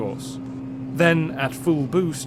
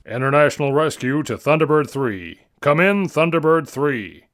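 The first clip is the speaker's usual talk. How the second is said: louder, radio call-sign voice; 5 dB louder than usual. Acted. Jeff calling his son John over the radio, urgent.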